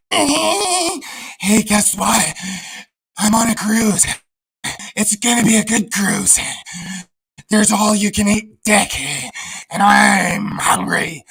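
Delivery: mock sing-song voice of the lonely cruiser, the last words slow; mocking creeper voice. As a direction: taunt him in a lightly put-on goofy voice.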